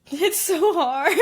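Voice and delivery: laughing through the words; slow, high and laughing. Real, not acted.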